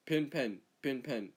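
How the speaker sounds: "Pin, pen" in mock Australian accent, nearly alike; Australian pronunciation. Shown as a demonstration. Australian showing local vowels, "Pin, pen" in Australian accent. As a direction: make "Pin" and "pen" sound almost the same, Australian style. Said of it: "both of us, we say".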